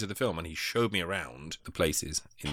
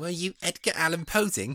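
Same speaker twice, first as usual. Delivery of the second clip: very high-pitched victorian orphan voice; 10 semitones higher, 4 dB louder than usual. Host imitating the co-host's voice, in a victorian orphan voice. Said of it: "Why do I sound like a Victorian orphan when you do my voice?".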